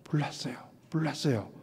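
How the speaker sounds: hushed, timid little report; murmuring. Shown as a demonstration. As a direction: murmur the fire news under your breath. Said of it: "소곤거리며".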